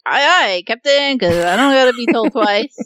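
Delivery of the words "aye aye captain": mock salute. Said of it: "I was like".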